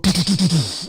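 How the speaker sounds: rapid stuttered gunshot noises; imitated gunfire. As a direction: mouth a burst of gunfire. Imitates gun going off.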